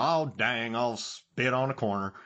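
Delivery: light mock Southern accent; imitated Southern accent. Film fan mocking overdone movie accents with a light Southern accent. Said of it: "you hear some of these southern accents where people".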